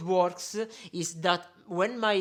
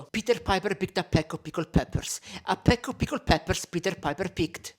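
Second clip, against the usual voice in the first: tongue twister with popping plosives on an unfiltered mic; bare microphone. Shown as a demonstration. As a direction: say it into a bare mic, letting the P's pop. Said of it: "first one without anything, so bare microphone".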